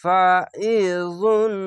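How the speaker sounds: ফাইজুন with the ain thick and pressed in the throat; heavy throat ain. Shown as a demonstration. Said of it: "আইনটিকে মোটা করে গলা চেপে পড়বেন".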